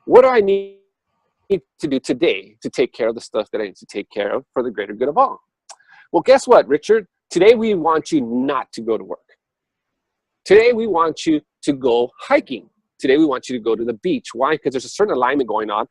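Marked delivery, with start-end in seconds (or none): 0.0-5.4 asking the universe. Retold or imitated. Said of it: "So I set my intentions". 6.1-14.3 higher, louder playful spirit voice; universe voice. Retold or imitated. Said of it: "universe answers Richard".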